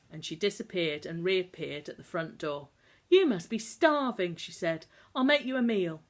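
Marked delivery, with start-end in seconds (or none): 3.1-6.0 fussing hostess. Acted.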